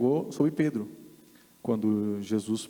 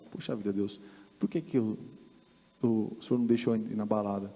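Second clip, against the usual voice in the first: frustrated complaint; 2 semitones lower, 4 dB quieter than usual. Retold or imitated.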